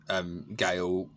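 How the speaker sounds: normal talking voice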